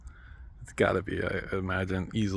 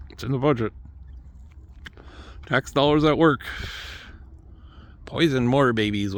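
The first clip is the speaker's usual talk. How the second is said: imitating a callous official, louder and higher; mocking elite voice; 4 semitones higher, 4 dB louder than usual. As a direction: sneer it out like a smug bureaucrat. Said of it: "I assume they talk like that".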